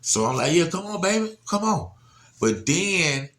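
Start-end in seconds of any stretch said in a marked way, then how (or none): 0.5-1.9 retold call, pitched higher. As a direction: urge a child to come in. Calling daughter in from waves.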